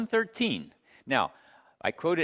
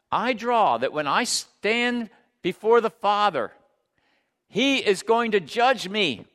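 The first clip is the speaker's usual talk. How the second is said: raised, forceful pulpit voice; emphatic preaching; 4 semitones higher, 4 dB louder than usual. Real, not acted. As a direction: press each phrase home to the congregation.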